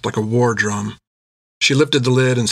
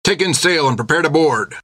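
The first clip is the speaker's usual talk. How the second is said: higher, firm captain's order; 4 semitones higher than usual. Acted. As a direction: command the crew. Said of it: "ordered the captain".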